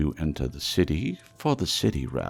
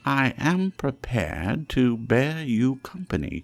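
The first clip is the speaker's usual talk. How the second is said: put-on earnest, raised old miser pleading; pleading Scrooge; 3 semitones higher, 5 dB louder than usual. Scrooge humbly pleads with the silent phantom, raised and earnest. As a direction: beg the silent ghost to guide you.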